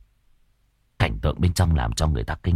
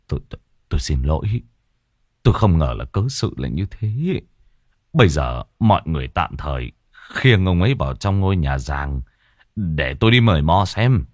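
lightly voiced older man, stammering then steadying; apologize, stumbling at first; a hint of a gruff chief; flustered village chief; 3 semitones lower than usual.

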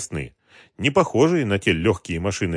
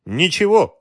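light smiling reply, high and louder; 10 semitones higher, 5 dB louder, slower than usual. A narrator's reading. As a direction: brush the question off with a smile. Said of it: "улыбнулся командир". (с улыбкой, высоко и громче)

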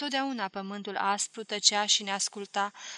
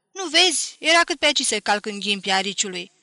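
put-on a girl who almost stepped on spines; startled cry; 8 dB louder than usual. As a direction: Valentina yelps at Darie after nearly treading on the hedgehog, loud and startled. Nearly stepped on hedgehog.

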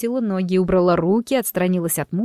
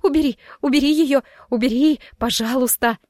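raised, frantic begging; panicked yelling; 4 semitones higher than usual. Acted. Clinging to her husband, Miranda begs him in panic. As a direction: plead frantically with eyes shut tight. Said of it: "заорала не своим голосом".

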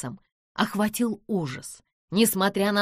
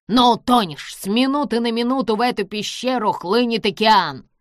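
loud gloating warning; villain threatening the rising ocean; 4 semitones higher, 6 dB louder than usual. A narrator's reading. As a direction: warn of the flood with relish. Villain warns of flood.

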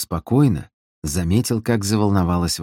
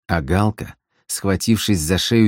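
ordinary delivery

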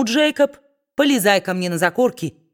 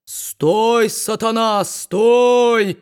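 loud, slightly raised bark; preacher barking again; 3 semitones higher, 3 dB louder, much slower than usual. A narrator's reading. Preacher barking at Kit a second time, loud. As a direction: bark it after him once more. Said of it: "снова рявкнул проповедник".

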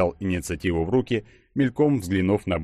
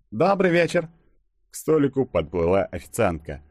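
high-pitched waitress voice; waitress greeting; 11 semitones higher than usual. A narrator's reading. (официантка здоровается высоким голосом)

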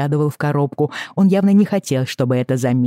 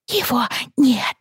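put-on crying child; 10 semitones higher than usual.

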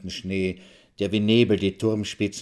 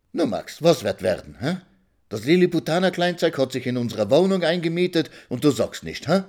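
put-on old woman nagging; 7 semitones higher than usual. Old woman nags Maxl.

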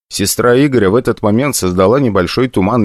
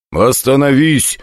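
cold; 6 semitones higher, slower than usual. Acted. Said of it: "холодно проговорил я".

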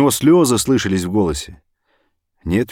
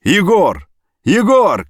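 two loud calls, the second even higher; urgent phone shout; 12 semitones higher, 6 dB louder, much slower than usual. Acted. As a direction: call anxiously down a silent line. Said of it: "кричал Фёдор".

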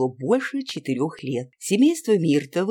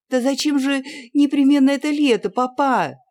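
high, louder, tearful protest; girl almost in tears objecting to her father; near tears; 10 semitones higher, 6 dB louder than usual. A narrator's reading. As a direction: plead on the edge of crying. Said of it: "чуть не со слезами".

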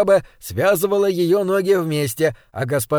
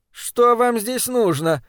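slow, higher, wary question; suspicious; 6 semitones higher, slower than usual. Acted. Maid suspiciously questions intruders in her kitchen, wary. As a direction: eye the strangers as you ask. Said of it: "спросила она подозрительно".

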